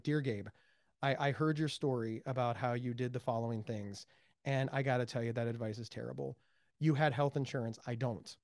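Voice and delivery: low, soft, measured letter reading; polite letter writer. Retold or imitated. Listener writing to Gabe with criticism, politely restrained. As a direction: read out a courteous but critical letter, understated. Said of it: "and they're very polite".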